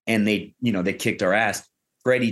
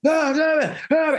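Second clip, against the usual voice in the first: high-pitched mock scream; imitated screaming. Retelling boot camp shouting down the line, mock screaming. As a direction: yelp out shouts as if relaying a call. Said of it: "I started screaming".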